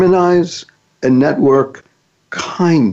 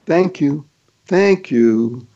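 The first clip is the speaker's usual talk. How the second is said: soft thank you; much slower than usual. Shown as a demonstration. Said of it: "these two words are".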